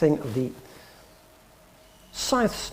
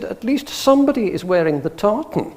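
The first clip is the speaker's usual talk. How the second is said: higher-pitched grand Edinburgh lady, imitated; haughty Edinburgh accent, put on; 4 semitones higher, 4 dB louder than usual. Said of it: "very grand Edinburgh lady".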